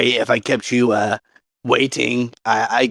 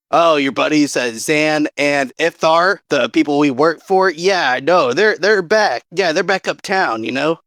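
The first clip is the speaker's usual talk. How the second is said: persuasive; 3 semitones higher than usual. Acted. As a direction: talk fast to sell the lie. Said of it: "the most important persuasion of his life".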